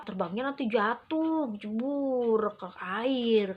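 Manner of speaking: lightly voiced small child; a hint of a child explaining; child's voice. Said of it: "katanya gitu".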